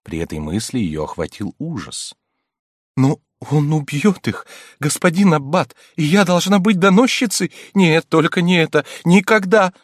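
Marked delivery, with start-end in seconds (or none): 3.0-9.7 higher, louder, rising to a cry of never; horrified refusal. A narrator's reading. Countess refusing to inform, horrified cry. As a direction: recoil in horror.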